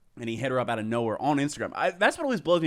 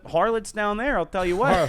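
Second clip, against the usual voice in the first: hammed-up old-timer; 7 semitones higher than usual. Old-timey joke word harlots.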